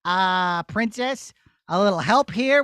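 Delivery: put-on a stuck boy asking nicely; shepherd boy. Shepherd boy pinned down, asking the princess for help.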